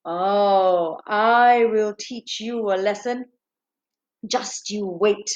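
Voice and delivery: slow, menacing royal indignation; furious king. Acted. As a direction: draw out the threat like an outraged king. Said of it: "he was furious. He was livid".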